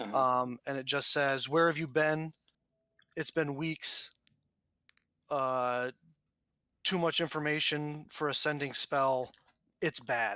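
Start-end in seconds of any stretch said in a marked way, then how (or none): 1.5-10.4 slow, commanding, authoritative voice with weight. Game narrator voicing a sending spell message, loud authoritative voice. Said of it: "speaking a little bit more with a little bit more authority and volume".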